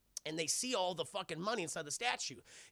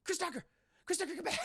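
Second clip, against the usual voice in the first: laughing mock call; 11 semitones higher, faster than usual. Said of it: "he's like".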